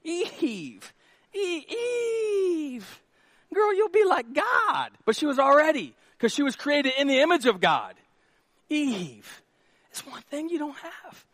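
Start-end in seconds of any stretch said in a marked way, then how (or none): 0.0-4.9 high, sing-song tempting call; Satan. Acted. The devil luring Eve, high mock coaxing. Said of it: "That's how Satan got to Eve". 8.7-11.2 soft, sly tempting voice; Satan. Acted. The devil tempting Eve, soft coaxing. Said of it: "That's how Satan got to Eve".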